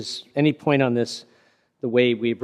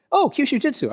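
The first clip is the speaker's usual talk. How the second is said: imitating the Japanese man; 3 dB louder than usual. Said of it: "was a Japanese person is talking to me".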